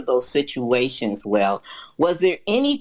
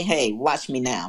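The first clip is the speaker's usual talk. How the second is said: calm; 6 semitones lower than usual. Retold or imitated. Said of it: "you just calmly just say".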